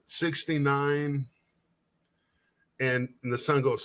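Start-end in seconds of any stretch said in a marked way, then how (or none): 0.1-1.3 drawn-out punchline. Acted. Hooker lists her specialties in joke.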